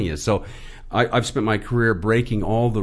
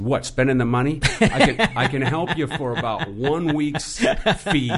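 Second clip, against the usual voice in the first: joking retort; 5 semitones higher than usual. Retold or imitated. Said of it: "And I said".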